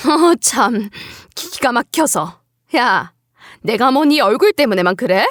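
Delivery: lightly voiced incredulous mother-in-law; scoff, then answer with cold bluntness; a touch of indignant disdain.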